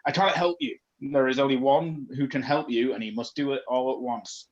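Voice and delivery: a throat-scraping spirit voice; ghost voice. Acted. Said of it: "That hurts my throat".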